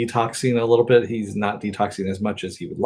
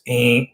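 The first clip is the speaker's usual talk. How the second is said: ink sound; 3 semitones higher than usual. Retold or imitated. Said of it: "kind of sound".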